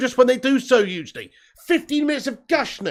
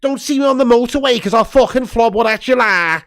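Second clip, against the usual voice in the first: mock Jamie Carragher voice. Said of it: "with his bloody voice".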